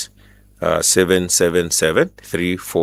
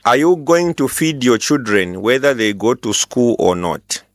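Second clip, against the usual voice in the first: to someone hard of hearing; 4 semitones higher, slower than usual. Real, not acted. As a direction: speak up, slow and clear for a bad line. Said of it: "Can you speak up".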